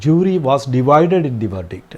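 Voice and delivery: very slow, word by word; slow dictation. Shown as a demonstration. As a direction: read it out slowly for the class to write. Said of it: "examples നോക്കാം". (വളരെ പതുക്കെ, വാക്കോരോന്നായി)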